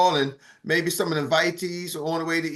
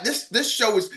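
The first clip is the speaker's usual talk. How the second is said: normal talking voice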